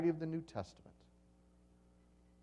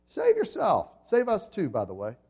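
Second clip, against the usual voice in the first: much higher, louder jeering shout; hurled insult; 5 semitones higher, 4 dB louder than usual. Acted. Criminal on the next cross hurling insults at Jesus, jeering. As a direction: fling the taunt up at him. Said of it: "hurled insults at him".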